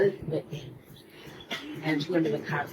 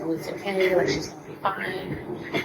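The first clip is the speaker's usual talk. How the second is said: higher-pitched, gently imitated consoling; retold reassurance; 4 semitones higher than usual. Classmates soothe a crying girl at school, retold reassurance. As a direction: mimic a soothing friend, pitched up.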